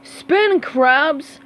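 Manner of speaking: high, loud command; crying out. Acted. Squidward crying out to Mister Krabs, loud. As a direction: urge Krabs to spin. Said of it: "cried Squidward".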